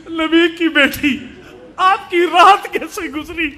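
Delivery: slow, plaintive retold question; tearful address. Preacher voices Medina's women visiting the Prophet's daughter, tearful. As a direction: ask it as if close to weeping.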